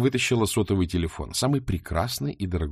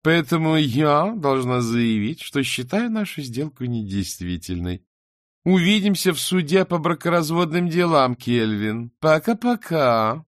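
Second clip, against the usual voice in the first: cold farewell; 6 semitones higher, 3 dB louder than usual. Acted. Emma ending the deal with Calvin.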